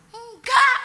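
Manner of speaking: high, loud cry of no; emphatic denial. Retold or imitated. Speaker denying they had let go, emphatic denial. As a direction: burst out with a refusal. Answers own question, acted protest.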